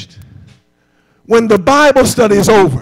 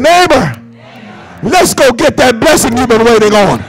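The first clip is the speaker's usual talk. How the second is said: more fired up. Shown as a demonstration. Preacher urging the church to repeat it, fired up. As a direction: say it with more push and energy. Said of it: "try it like this".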